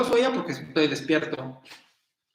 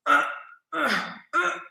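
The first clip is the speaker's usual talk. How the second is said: imitated moans; 12 semitones higher, slower than usual. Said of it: "nada más hicieron".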